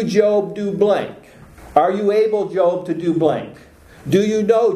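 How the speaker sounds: high, insistent rhetorical questions to Job; mock divine interrogation, questions pitched high; the Lord questioning. Lord's questions voiced as template.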